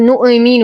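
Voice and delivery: نؤمن with the hamza bounced into an extra vowel; نؤمن as "nu'-e-minu"; wrong bounced hamza. Shown as a demonstration. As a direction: release the glottal stop in نؤمن with a small echo. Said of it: "نصبر على الهمز ولا نقلقله".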